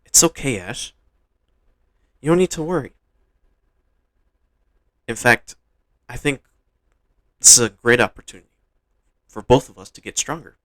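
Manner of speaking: lightly voiced little creature, lifted at times; a hint of a small creature's voice; Pikachu. Pikachu telling Ash not to worry, lightly voiced creature. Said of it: "imagine him saying in his Pikachu voice".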